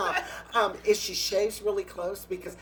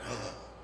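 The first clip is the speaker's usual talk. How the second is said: imitated gasp; 5 semitones lower, 8 dB quieter than usual. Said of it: "The queens were like".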